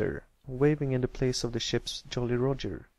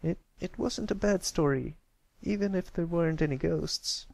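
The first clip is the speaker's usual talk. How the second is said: grudging filly; 7 semitones higher than usual. Acted. Scootaloo grudging.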